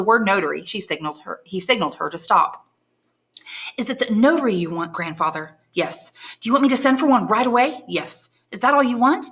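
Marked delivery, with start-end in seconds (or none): 3.8-9.3 put-on higher, anxious questioning girl; young woman pleading, raised pitch; young granddaughter. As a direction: coax answers from a mute grandfather. Valentine asks about notary.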